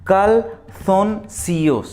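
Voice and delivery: calzoncillos drawn out syllable by syllable; teacher asking for close listening; very slow, clear model. Shown as a demonstration. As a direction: say calzoncillos so they can hear every sound. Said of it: "बहुत ही ज़्यादा ध्यान से सुनना होगा".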